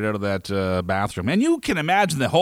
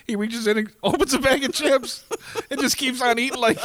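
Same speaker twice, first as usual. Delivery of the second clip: amused, laughing tone; 10 semitones higher than usual. Real, not acted. Amused retelling of absurd ending.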